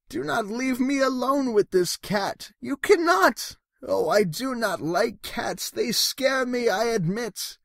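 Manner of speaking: the scared fish begging not to be left with the cat; frightened fish. Acted.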